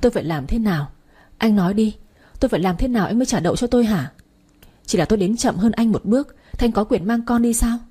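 a mother's desperate, tearful-edged plea; pleading. Acted. Mother begs her ex-husband to return their daughter, pleading. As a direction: beg him, words tumbling out. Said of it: "Tôi cầu xin anh".

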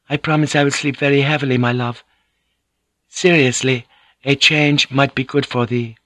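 a courteous lady explaining sweetly; Mariko, gently teasing. Acted. Narrator voices Mariko.

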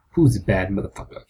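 low funky soul-singer call; Shaft theme singer. Retold or imitated. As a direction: belt it like a seventies funk song. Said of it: "It also sounds like the Shaft theme".

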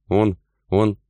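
falter, hunting for an excuse; searching for excuses. A narrator's reading. Wife caught out by husband, faltering for excuses. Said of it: "подыскивала она оправдания".

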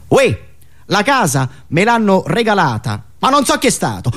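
mock irritated official, brushing it off; annoyed, put out. Powerful official brushing off a journalist, mock annoyed and dismissive. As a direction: dismiss the question like a bored bigwig. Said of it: "rispondono infastiditi, scocciati".

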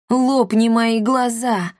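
plain reading voice

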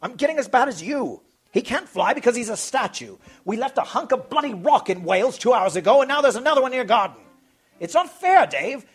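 exasperated rant. A narrator's reading. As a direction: vent all the frustration at your friend. Jim ranting at Dave.

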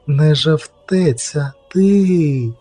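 very slow, drawn-out realisation; slow, pointed accusation; dawning accusation. Acted. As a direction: stretch it out, lifting on the last word.

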